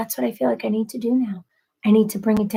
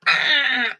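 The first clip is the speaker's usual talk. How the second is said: imitated pained husband noise; 3 semitones higher than usual. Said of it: "he's like".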